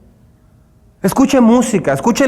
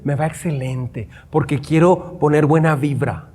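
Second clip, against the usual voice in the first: mock human prayer; 7 semitones lower, 5 dB quieter than usual. Mocking believers who pray by their own strength, a low, soft half-hearted prayer. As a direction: mumble a self-help prayer, half-hearted. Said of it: "Muchos tratan de hacer eso humanamente".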